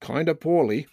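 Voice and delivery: put-on "Kinda poorly" in a drawled Maine accent as the deadpan punchline; dry Maine accent. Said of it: "I gotta get my accent on".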